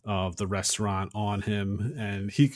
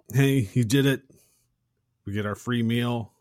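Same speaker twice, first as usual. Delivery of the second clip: celebrating; 3 semitones higher, 6 dB louder than usual. Retold or imitated. Roman telling the chef about the free meal, celebrating. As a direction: call out the win, then ease off.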